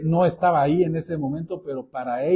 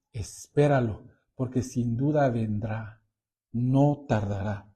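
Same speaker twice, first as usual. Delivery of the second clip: slow, weighty reading of the verse; solemn scripture reading; 3 semitones lower than usual. Acted. Pastor reading Habakkuk to the congregation, slow and solemn. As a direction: read it out slowly, like a proclamation.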